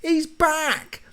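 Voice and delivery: lightly voiced viewers cheering his return; relieved fans. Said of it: "you're probably going".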